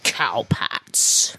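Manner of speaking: low spooky whisper. Pretend. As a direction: whisper it like a ghost story.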